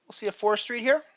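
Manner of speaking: talking around ice; mouth full. Real, not acted. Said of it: "Just realized when I've got ice in my mouth".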